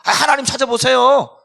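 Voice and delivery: high, loud, indignant protest; defiant talking back. Acted. Preacher as Cain defying God with hurt feelings, angry. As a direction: argue back, rising to a loud retort. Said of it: "감정 상하고 하나님 앞에 막 대드는 거예요".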